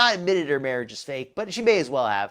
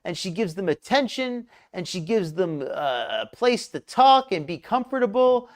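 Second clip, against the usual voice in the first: sarcastic gushing, key words stretched out. Acted. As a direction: defend her with overdone, insincere conviction. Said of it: "I'm being sarcastic".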